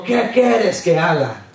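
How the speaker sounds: low, slow and kind, as Jesus asking; slow, low Jesus asking the blind man; gentle voice of Jesus. Retold or imitated. Preacher voicing Jesus to blind man.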